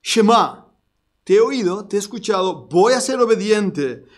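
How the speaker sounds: loud declared obedience; shouted response. Acted. Preacher shouting Israel's answer to God. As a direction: call it out like a vow. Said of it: "Es un grito".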